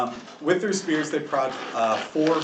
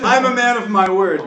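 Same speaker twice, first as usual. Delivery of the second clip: higher, louder smug assurance; smug dragon voice; 7 semitones higher, 10 dB louder than usual. Acted. Half-dragon reassuring the party, smug higher voice. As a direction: promise with a sly grin. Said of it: "He says".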